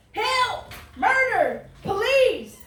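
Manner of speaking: high cries of Help and Murder; high, loud cry for help; yelling for help. Acted. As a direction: shout it out like a victim calling for help. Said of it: "How many times do I have to yell".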